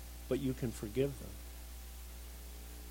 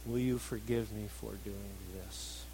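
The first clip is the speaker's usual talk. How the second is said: low, soft, halting plea; prompted apology; 6 semitones lower, 7 dB quieter than usual. Retold or imitated. Husband prompted by his wife, quiet prompted apology. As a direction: ask pardon quietly, word by word. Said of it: "Aren't you gonna say something else?".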